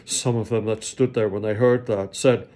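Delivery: measured King James reading, sentences rising and falling; scripture reading. Acted. Preacher reads Matthew twenty-seven to the congregation, solemn. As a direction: read the Passion aloud with weight.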